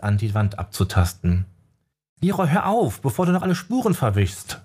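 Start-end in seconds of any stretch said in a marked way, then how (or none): 2.2-4.6 sharp scolding, much higher; hissing scold. A narrator's reading. Jessica scolds Leroy for smudging the traces, hissing. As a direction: snap at him to stop. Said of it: "schimpfte Jessica zischend".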